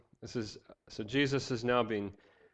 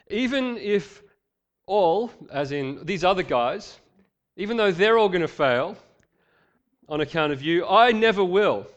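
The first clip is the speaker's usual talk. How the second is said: bold vow; 6 semitones higher, 7 dB louder than usual. Acted. Peter's boastful vow, voiced.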